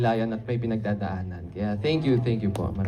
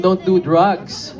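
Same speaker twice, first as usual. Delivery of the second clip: mock serious advice; 4 semitones higher, 3 dB louder, much slower than usual. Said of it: "kidding aside".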